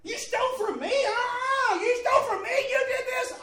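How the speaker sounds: high, loud scolding; imitated outraged confrontation, pitched right up; stern woman. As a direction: tell him off like a stern woman. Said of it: "that was the kind of stern".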